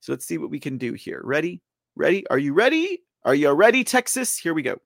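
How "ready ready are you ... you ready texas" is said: rising, louder hype-up call. Real, not acted. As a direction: pump up the crowd. Hyping up the audience.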